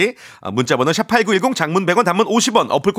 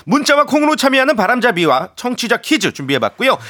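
upbeat quiz host intro; game show host; 7 semitones higher than usual. Acted. Opening the quiz segment.

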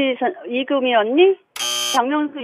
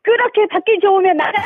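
higher-pitched practice scold; attempted scolding; 7 semitones higher than usual. Caller imitates host's raised tone, high mock scolding. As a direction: copy a telling-off in a raised, singsong voice. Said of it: "다시 한 번".

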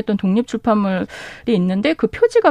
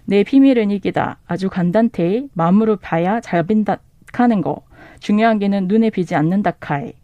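reading the line in a Gyeongsang dialect; a bookseller shows off the Gyeongsang dialect, Gyeongsang dialect reading. Shown as a demonstration. 경상도 사투리로 낭독. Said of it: "경상도 버전 에린 왕자에서는요".

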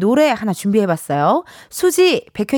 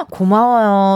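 touched surprise; 3 semitones lower, slower than usual. Real, not acted.

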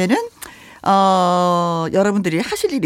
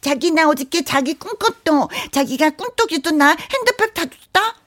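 lightly voiced coy girlfriend, higher; cutesy girlfriend; 7 semitones higher than usual. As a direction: play a coy sweet girlfriend. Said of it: "연기를 또 해봤습니다". (애교 섞인 여자친구)

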